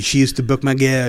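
mock French Canadian accent. Podcaster mimicking French Canadian wrestler's complaint, French accent. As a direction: imitate a Quebecois speaker's French-tinged English. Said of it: "speaks with a French accent".

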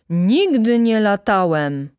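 loud, slow, outraged denial; indignant shout. A narrator's reading. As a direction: shout it, stretching out each word. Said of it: "krzyknął Rzecki, uderzając pięścią".

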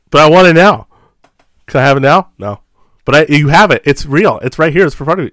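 put-on high, loud whining kid voice; whiny childish pleading. Acted whiny customer and clerk.

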